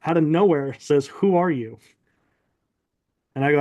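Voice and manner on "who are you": a hint of a booming mystery voice. Mysterious voice questions the resting narrator, mildly mock-booming. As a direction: lightly imitate a commanding voice from nowhere. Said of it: "this really loud, booming voice".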